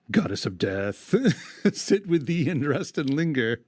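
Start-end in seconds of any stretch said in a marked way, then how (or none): 1.7-3.6 measured verse reading; poem recitation. Acted. Host reading the epic to his cohost, recited verse. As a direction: read it aloud like old poetry.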